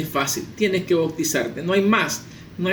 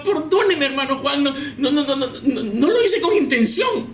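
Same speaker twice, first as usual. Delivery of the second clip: high, stammered acted apology with repeated no's; frightened pleading pastor; 6 semitones higher than usual. Pastor pleading with the man he struck, frantic apology. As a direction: plead frantically, as if about to be hit. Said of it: "el pastor se quedaba".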